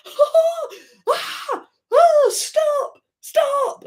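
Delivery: high shrieking laugh while crying stop; scream laugh. Shown as a demonstration. Showing viewers how she laughs, shrieking stop while grabbing. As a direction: shriek with laughter, pushing someone off. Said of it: "That's what I laugh like".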